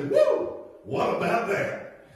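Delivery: high whooping woo, then a laughing line; God tickled and delighted; a pleased little whoop; delighted exclaim. Pretend. God delighted, imagined reaction.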